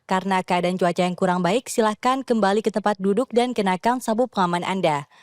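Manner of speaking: calm formal in-flight announcement; cabin crew announcement. Shown as a demonstration. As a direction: read it like a flight attendant on the PA. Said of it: "Boleh silakan, Mbak Karisa".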